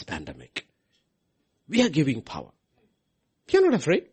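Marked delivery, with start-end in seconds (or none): 3.5-4.1 ringing, emphatic declaration, higher and louder. Real, not acted. Preacher to congregation, declaring it loud and high. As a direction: declare it boldly to the whole room.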